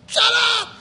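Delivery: high, loud mock yell; mock shout. Preacher voicing the resisting mind, a high loud mock yell. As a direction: snap shut up at the sermon.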